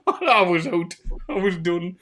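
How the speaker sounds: high, squeaky with laughter; real helpless laughter. Real, not acted. Storyteller recalling the yellow snow, cracking up as he talks. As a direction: struggle to get words out through real laughing.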